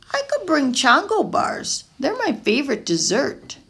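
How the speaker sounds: put-on a kid lighting up at his idea; eager boy. Young Pablo telling Mama about his favorite dessert, eagerly.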